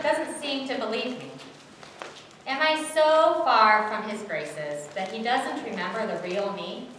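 troubled disciple, swinging from protest to regret; exasperated Peter monologue. Acted. Peter frets over Jesus asking if he loves him, troubled. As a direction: confess it dramatically, with weighted pauses.

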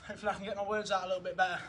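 fast, breathless words; talking out of breath after running drills. Real, not acted. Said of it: "Running out of breath".

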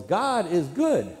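loud, high, drawn-out preacher's call; preacher's yell. Retold or imitated. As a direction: yell it slowly across a church. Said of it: "he yells".

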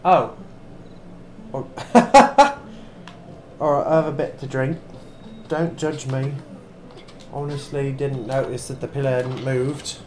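badly faked British accent, chatty gamer commentary; amateur attempt at sounding vaguely British; mock British accent. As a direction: put on a dodgy, hard-to-place British accent. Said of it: "I know the accent's terrible".

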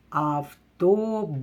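Автобус drawn out a little, each sound stretched; slow sounded-out word. Shown as a demonstration. Teacher to pupils listening for sounds, slow sounding out. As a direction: sound out Автобус slowly for the class. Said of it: "Слухайте слово".

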